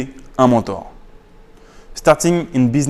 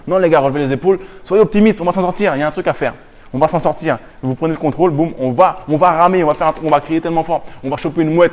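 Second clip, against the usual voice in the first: rallying optimism; 4 semitones higher, faster than usual. Acted. Acted rallying of a stranded crew.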